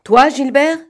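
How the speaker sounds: exasperated leader snapping at his accomplice. Acted. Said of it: "demanda Lupin, exaspéré".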